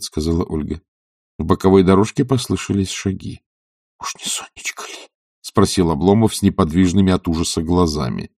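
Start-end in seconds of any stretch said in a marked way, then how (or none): 4.0-5.1 unvoiced, hushed fear; a man dreading the wrong visitor; frightened whisper. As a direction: whisper so no one hears. Fearful of being caught.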